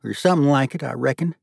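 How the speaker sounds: high Southern character voice; folksy judge, scornful. Acted.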